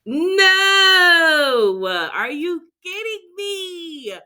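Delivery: high, loud disbelieving cry of "No!", then a slow, drawn-out "Are you kidding me?"; retold shocked cry. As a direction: relive the moment the store turned out closed. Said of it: "I was like".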